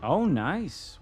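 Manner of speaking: high, loud delighted "Oh, nice"; excited cheer. Real, not acted. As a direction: burst out with joy at the play. Big play in the game.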